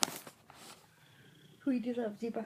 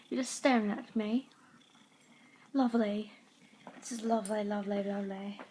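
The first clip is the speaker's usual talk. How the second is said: mock British accent, winding down; 3 dB louder than usual. To a cat that just stares, British accent. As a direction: play it British, starting punchy then easing off. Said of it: "British accents I do very well".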